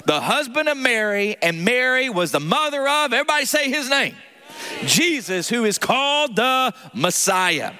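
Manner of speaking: steady formal scripture reading. Acted. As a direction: read the list like a reverent liturgy. Reads genealogy aloud.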